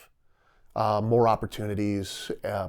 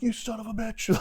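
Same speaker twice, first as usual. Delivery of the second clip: mock outrage; 12 semitones higher, 6 dB quieter than usual. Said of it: "And you're like".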